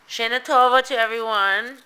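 cheerful greeting. Real, not acted. Festive greeting to viewers.

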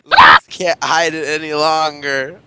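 loud, slow mocking proclamation; teasing shout. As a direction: proclaim it to tease him.

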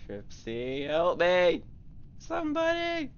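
panicked call for help; being chased. Real, not acted. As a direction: cry out while running away. Fleeing the imposter, calling out.

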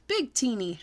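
mild happy call; called out happily. Acted. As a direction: pop the answer out cheerfully. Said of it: "I called out very happily".

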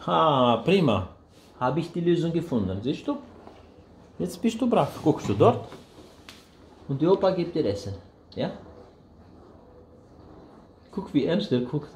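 high, loud cheerful praise; excited praise. Real, not acted. Cheering the baby during feeding.

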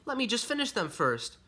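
put-on high-pitched young bunny's plea; pleading cry. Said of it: "cried Henry".

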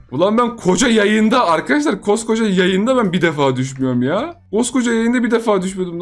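frustrated outburst. Real, not acted. Streamer yelling at himself after a fall. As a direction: groan it out at himself for falling.

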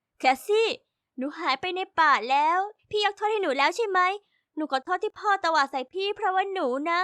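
put-on a lost kid apologising; little sister found in the woods, a touch tearful; tearful little girl. Lost child found crying.

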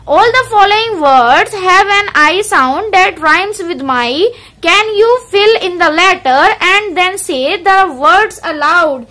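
very slow, deliberate reading of the book line; careful teacher reading from the textbook; slow textbook read-aloud. Acted. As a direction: read each word out slowly for the class.

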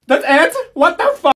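high, loud disbelieving yell; outraged disbelief. Acted. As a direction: shriek at the letdown. Anticlimax reaction.

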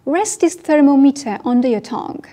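slow, loud, clear English model line; slow model sentence. Shown as a demonstration. Teacher modelling for learners, slow and clear. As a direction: say it slowly for the class to repeat. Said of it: "teacher models the line".

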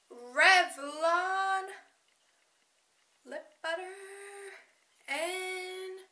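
slow breathy whisper of the shade name. Acted. Vlogger naming her lipstick to viewers, whispered effect. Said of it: "Why am I doing weird sound effects?".

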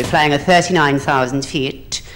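lightly voiced airline captain; a hint of measured intercom patter; captain's announcement. Captain addressing passengers over the intercom, lightly imitated announcement. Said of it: "on his intercom doing his announcement".

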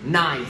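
"Knife" starting straight on the N sound; silent K. Shown as a demonstration. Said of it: "À, K K".

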